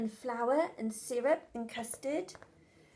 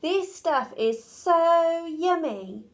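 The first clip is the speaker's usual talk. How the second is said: delighted dragon; 5 semitones higher, 5 dB louder, slower than usual. Acted. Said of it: "said the dragon".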